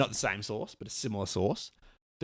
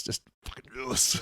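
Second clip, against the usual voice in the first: gym bro; 3 semitones higher than usual. Pretend. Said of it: "how you hold your bar".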